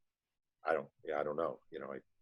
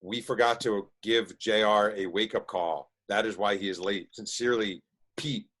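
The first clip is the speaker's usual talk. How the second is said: reading the note; slower than usual. Retold or imitated.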